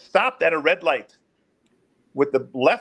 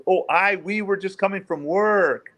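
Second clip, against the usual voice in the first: slightly raised, drawn-out imitation of a suspect; voice going up; 3 semitones higher, slower than usual. Suspect trying to convince officer, imitated raised voice. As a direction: lift it a little and stretch it out. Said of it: "When somebody's voice goes up".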